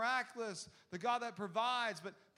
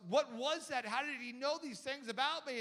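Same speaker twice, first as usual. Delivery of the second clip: higher, louder, amazed questioning; a stunned father's raised-voice questions; astonished dad; 5 semitones higher, 4 dB louder than usual. Retold or imitated. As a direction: demand answers in disbelief. Astonished dad in retold story.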